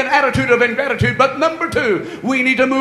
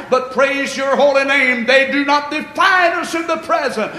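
earnest prayer voice, lifting to God; 2 semitones higher than usual. Acted. Pastor praying over the congregation, earnest. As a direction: pray it with full heart.

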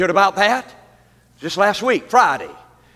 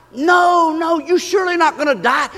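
raised, insistent mock reassurance; devil's denial; 8 semitones higher than usual. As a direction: imitate the enemy brushing off the danger. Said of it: "And he says".

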